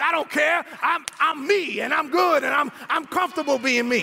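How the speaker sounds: emphatic, proud retort; retold unbothered comeback; defiant self-assurance. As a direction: brush off the teasing with confidence. Retold defiant answer about his looks.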